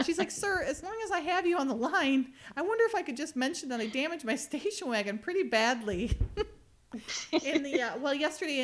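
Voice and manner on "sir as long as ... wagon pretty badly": nervous stammering. Retold or imitated. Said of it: "she's all stuttering".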